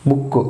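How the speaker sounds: బుక్ said with a short oo; short vowel. Shown as a demonstration. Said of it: "బుక్ కూడా short ప్రొనౌన్సియేషనే". (బుక్ లో పొట్టి ఊ శబ్దం)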